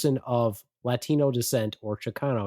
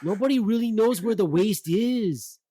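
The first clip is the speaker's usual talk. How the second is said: cholo voice; 6 semitones higher than usual. Retold or imitated.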